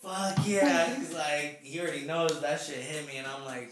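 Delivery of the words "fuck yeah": loud, higher mock approval; drawn-out hyped-up agreement; retold hype. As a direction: imitate a brother cheering you on. Imitating brother nodding in approval.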